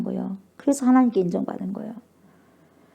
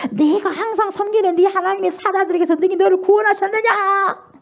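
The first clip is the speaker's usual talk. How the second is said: crying; 10 semitones higher than usual. Retold or imitated. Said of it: "막 훌쩍훌쩍 울면서".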